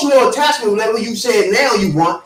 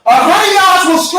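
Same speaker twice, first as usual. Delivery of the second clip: yelling; 5 semitones higher than usual. Real, not acted. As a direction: yell it over them. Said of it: "Why are you yelling?".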